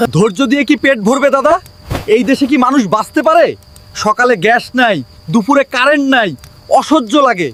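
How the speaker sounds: mildly indignant protest; exasperated retort. Acted. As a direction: argue back in frustration. Sajju argues back at his elder.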